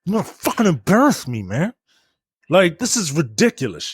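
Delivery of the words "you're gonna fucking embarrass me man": scream through teeth. Retold or imitated. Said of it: "scream through their teeth".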